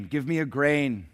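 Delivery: pleading beggar cry, slow; slow pleading call. A narrator's reading. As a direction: beg for a grain, drawn out. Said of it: "cry out for a grain".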